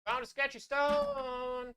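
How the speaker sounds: high, slow, calling from far off; echoing voice. Acted. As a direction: call out like a voice echoing from afar. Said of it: "I'm just adding that effect".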